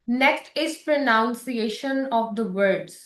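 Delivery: very slow, word by word; very slow announcement. Shown as a demonstration. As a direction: announce the heading slowly. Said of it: "teacher announces next criterion". (धीमी घोषणा)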